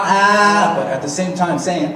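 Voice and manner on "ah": stretched ah. Shown as a demonstration. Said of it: "stretch it out".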